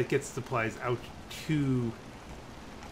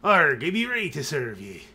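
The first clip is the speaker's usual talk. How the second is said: louder pirate-like captain growl; old sea captain voice; 3 semitones higher, 7 dB louder than usual. Acted. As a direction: ham up a salty old sailor. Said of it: "like, the old sea captain voice".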